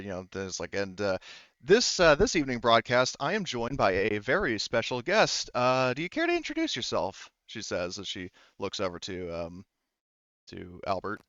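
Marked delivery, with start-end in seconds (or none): 1.6-7.3 lightly voiced upbeat broadcast host; a hint of perky radio presenter; cheerful radio host. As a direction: introduce a special guest on air.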